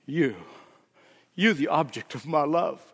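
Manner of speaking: preacher voicing God in a rising crescendo. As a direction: start hushed and deliberate, swell with each repeated phrase. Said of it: "God says".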